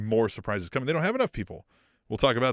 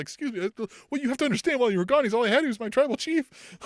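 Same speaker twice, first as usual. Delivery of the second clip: mock sad plea; 10 semitones higher, faster than usual. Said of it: "He's like".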